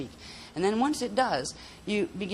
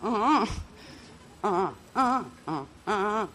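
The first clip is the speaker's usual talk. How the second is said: tone repetitions; 4 semitones higher than usual. Shown as a demonstration. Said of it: "do three, like".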